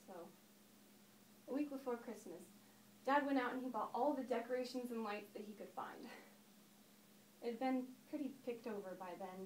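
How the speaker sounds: lightly acted storyteller recalling childhood; understated reminiscence, swelling and then dropping back; Daphne. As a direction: tell it as a stage monologue, with long pauses. Performs Daphne's monologue about her father.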